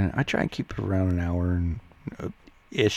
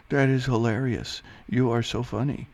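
higher, exaggerated you're-so-funny delivery; mock amusement; 5 semitones higher than usual. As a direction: humor the heckler with overdone delight. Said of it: "you're funny".

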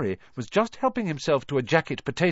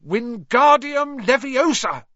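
loud, slow, high shout of the spell; 12 semitones higher, 7 dB louder, slower than usual. A narrator's reading. Ron yelling the spell wrong at his feather, loud. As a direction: bellow it, flailing. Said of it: "he shouted".

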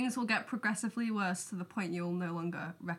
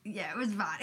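whispered. Real, not acted. Recalling a bad reading.

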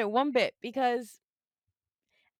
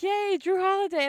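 higher, louder mock celebration; excited retold yay; retold cheer; 7 semitones higher, 5 dB louder than usual. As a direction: cheer the news as you first heard it. Cheering the trade news, retold.

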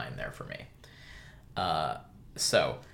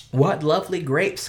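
high squealing aunt voice, much louder; squealing baby talk aunt; 9 semitones higher, 9 dB louder than usual. Acted. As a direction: gush over the grapes in a squeal. Aunt Letty voiced in reading.

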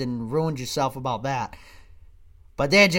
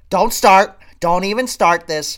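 angry warning; 2 semitones higher, 7 dB louder than usual. Retold or imitated. Acted wife warning husband.

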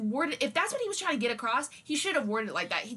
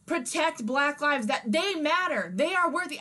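angry, slow, loud; 3 semitones higher, 5 dB louder, slower than usual. Real, not acted. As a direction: hammer each word out in anger. Angry about Trump.

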